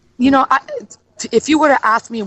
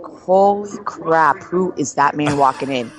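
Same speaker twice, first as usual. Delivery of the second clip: slow, drawn-out amazement, dropping lower; retold awe; 5 semitones lower than usual. Woman retelling first sight of a man, awestruck. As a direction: linger on each word in mock awe.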